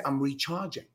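soft, hopeful answer; gentle upbeat reply; positive reframe. Shown as a demonstration. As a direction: say it like good news. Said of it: "I mean, say that".

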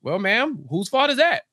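measured start, rising on THAT; pointed retort. Acted. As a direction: turn the question back with pitch lifted on "that". Host turns the question back.

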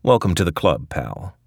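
dry, sour and mocking; a hint of rancid sarcasm; sardonic. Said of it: "says Rick in his rancid, sardonic way".

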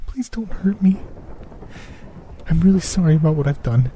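put-on high, soft, whispered plea of a scared girl; a young girl hiding in the wall pleads softly; frightened little girl. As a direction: beg softly like a terrified thirteen-year-old. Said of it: "spoke in a soft tone".

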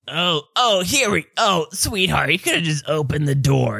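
lightly voiced parent fussing over a loved one; fussing concerned parent. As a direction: voice lifted in sympathy. Voicing a fussing parent in game.

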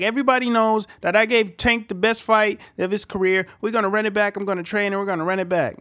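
high, loud boastful boxer; hammed-up cocky fighter; mock Rolly. Rolly boasting after losing, high. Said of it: "he was still talking".

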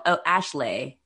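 "Ashley" ending in an AY, weirdly English; Philly E as A. Shown as a demonstration. Showing why he was taken for British, "Ashley" ends in AY. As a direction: say "Ashley" as "Ash-lay". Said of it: "it sounds weirdly English".

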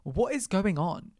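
high, slow wondering; amazed disbelief. Retold or imitated. On the rooftop bar, amazed and disbelieving. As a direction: marvel at where you are. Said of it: "I was like".

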